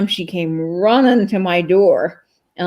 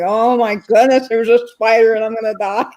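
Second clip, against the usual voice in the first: mildly dramatized panic, raised pitch; mock panic, a little higher; retold freak-out; 4 semitones higher, 3 dB louder than usual. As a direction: act out panicking over a bug. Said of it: "I'm just freaking out".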